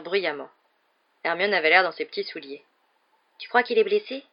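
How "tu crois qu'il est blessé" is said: higher, worried question; high-pitched. Acted. Hermione asking if Lockhart is hurt, high-pitched. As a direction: pitch it up with mild worry. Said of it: "d'une voix aiguë".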